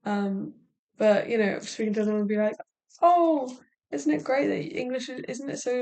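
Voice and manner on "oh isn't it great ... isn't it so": high, loud "oh" easing into admiration; mock-enthusiastic admiration, starting high; imitated gushing. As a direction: gush like an impressed stranger. Imitates impressed people's gushing reaction.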